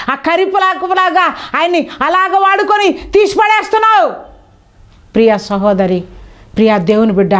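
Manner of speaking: ordinary talk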